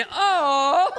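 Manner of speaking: very high, tiny crying coo; baby voice. Retold or imitated. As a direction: coo like a little girl. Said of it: "in her little baby voice".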